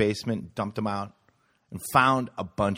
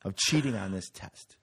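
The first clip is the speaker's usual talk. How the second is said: slow, drawn-out fake outrage; playing the wronged innocent; mock indignation; 2 semitones higher than usual. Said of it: "Yeah, I go".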